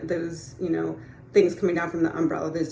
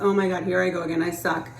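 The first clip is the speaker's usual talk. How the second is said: berating yourself. Retold or imitated. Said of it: "berate yourself and be like".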